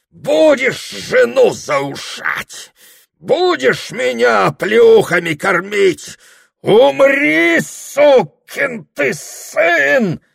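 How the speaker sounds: очень высоко и громко, медленно; дави всей злостью; яростный крик. Acted. Дьякон верхом на Прохоре. (дьякон в ярости орёт на Прохора)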